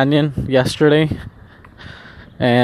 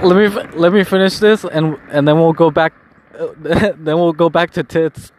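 laughing; 3 semitones higher than usual. Retold or imitated. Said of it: "Eddie Bravo's like".

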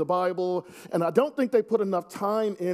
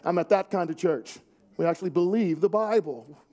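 emphatic; 2 semitones lower than usual. Shown as a demonstration. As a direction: declare it proudly and firmly, as a demo. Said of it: "you should say emphatically".

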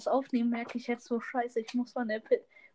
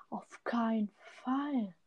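whispered sarcasm; 5 dB quieter, slower than usual. Pretend. Sarcastic reply, unvoiced whisper.

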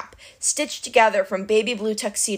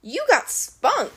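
slow, high-swooping monster drawl; Cyclops voice; 8 semitones higher, slower than usual. A narrator's reading. Cyclops impressed by his captive, slow drawl. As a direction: drawl it out with relish.

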